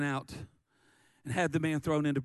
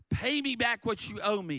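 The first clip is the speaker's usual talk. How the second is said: raised, higher-pitched demand; angry demand; 5 semitones higher than usual. Acted. Servant choking his fellow servant over a debt, angry demand. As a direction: demand it with mild force. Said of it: "he demanded".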